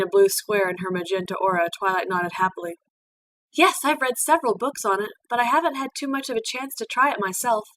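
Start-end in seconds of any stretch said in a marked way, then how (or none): 3.5-7.7 put-on higher, bright young mare voice; Twilight's voice. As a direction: play the eager young pupil, a little shy. Twilight answers about origami.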